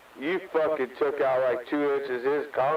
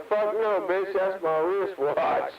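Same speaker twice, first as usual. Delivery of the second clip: higher and slower, put-on sneering comeback; mock retort; 6 semitones higher, slower than usual. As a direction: deliver the punchline pitched up, dragging it.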